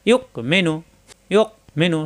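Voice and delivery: "ইয়ক" shut in the throat before "মেনু"; "ইয়ক" stopped short, small gap before "মেনু"; hard hamza stop. Shown as a demonstration. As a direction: catch "ইয়ক" firmly, then say "মেনু". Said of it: "শক্ত হবে".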